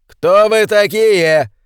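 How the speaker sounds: high, slow, loud demand; loud wary challenge. A narrator's reading. Colonel challenges gunmen on road, loud and slow. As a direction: call out to the armed strangers. Armed men block the road.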